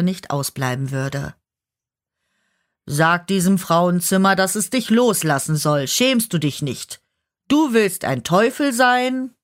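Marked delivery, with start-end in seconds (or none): 2.9-9.4 laut und empört, die letzte Frage hoch hinaufgerissen; zorniger Herrscher. Acted. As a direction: der Herrscher tadelt den Teufel voller Verachtung. Herrscher schimpft mit dem Teufel. (empört scheltender Herrscher)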